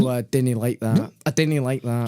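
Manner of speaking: a light Scottish accent, imitating a nervous friend. Mocking friend's fear in lift, light Scottish accent. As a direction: mimic his wee Scottish accent, half-joking. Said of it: "in his little Scottish accent".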